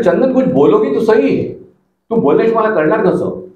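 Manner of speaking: retold tender, concerned appeal; affectionate coaxing. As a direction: coax her to open up, unhurried. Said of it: "मी असं आपुलकीने तिला विचारलं".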